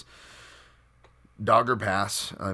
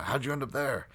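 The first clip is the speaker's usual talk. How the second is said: higher-pitched cartoon catchphrase voice; Strong Bad; 7 semitones higher than usual. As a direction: quote it in a high, put-on character voice. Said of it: "Strong Bad walks up and goes".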